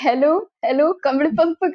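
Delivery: mock can't-hear-you phone voice; faking bad connection. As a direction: call out as if the line is breaking up. Faking a bad line to hang up.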